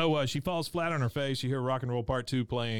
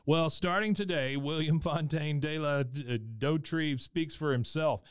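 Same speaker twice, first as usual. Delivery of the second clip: higher, lightly imitated grand announcement; mock proclamation; 4 semitones higher than usual. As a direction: declare independence as a character. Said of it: "He stands up".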